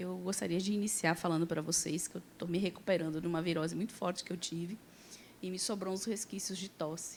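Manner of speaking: hushed, very soft, quiet voice. Opening a talk, telling listeners about recovering from a strong virus: quiet voice. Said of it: "estou com a voz baixinha hoje".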